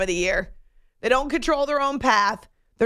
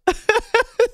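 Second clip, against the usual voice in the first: short embarrassed chuckle; amused laugh; 12 semitones higher, 4 dB louder than usual. Real, not acted. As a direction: laugh it off lightly. Laughs at own hiccup.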